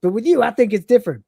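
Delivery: chatty mocking tale told brightly; Cat voice. Cat telling Lister the pit bull story. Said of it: "the cat says".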